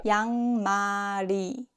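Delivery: 양말이 linked as yang-ma-ri; linked pronunciation. Shown as a demonstration. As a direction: run the ㄹ of 양말이 into the final vowel. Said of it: "Because of the linking rule".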